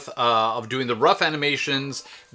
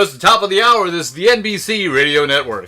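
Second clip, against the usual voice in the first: lightly voiced radio station identification; old radio DJ; 3 semitones higher, 5 dB louder than usual. Radio DJ giving the station identification, lightly voiced announcer. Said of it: "radio D Js would say".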